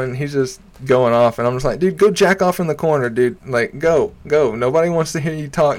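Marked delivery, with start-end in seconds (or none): 1.8-5.8 raised, rapid-fire mock telling-off; retold angry dismissal. Comic retelling put-down of heckler, heated. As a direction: replay shooing a pest away, pitched up.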